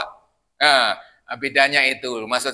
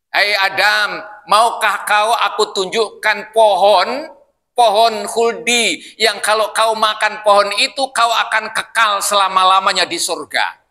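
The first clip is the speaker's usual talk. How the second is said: slow coaxing voice of the tempter; lightly voiced devil, slow and coaxing; tempting devil; 4 semitones higher, 3 dB louder than usual. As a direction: draw Adam in slowly, sweetly. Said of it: "Setan mengatakan".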